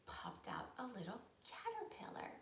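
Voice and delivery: hushed storybook whisper; soft breathy reveal. Acted.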